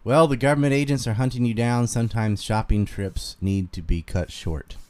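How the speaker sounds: fuller, firmer Carolina twang; Southern Carolina accent, read out clearly. Shown as a demonstration. Streamer repeating the requested line, Carolina Southern accent. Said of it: "I can just do my normal Carolina one".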